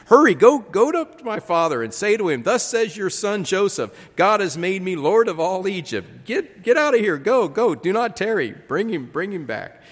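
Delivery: loud, high urgent calling; urgent shout. Acted. Joseph sends his brothers off to fetch father, urgent shout. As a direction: hurry them out the door.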